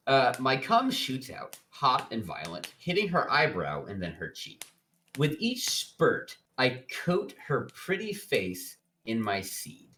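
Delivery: measured dramatic book reading; narrating a steamy novel aloud; story narration. A narrator's reading. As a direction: read it out as a narrator, line by line.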